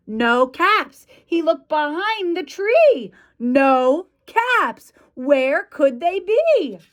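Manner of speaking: animated storyteller with measured pauses; picture-book narration. A narrator's reading. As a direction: read it to small children, playing up the search. Reads picture book to children.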